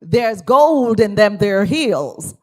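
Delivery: Southern American drawl. Shown as a demonstration. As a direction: show them the Southern way again. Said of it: "I don't like your American accent".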